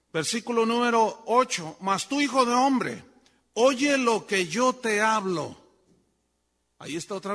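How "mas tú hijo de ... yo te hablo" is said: emphatic scripture reading. Acted. Preacher reads God's command aloud.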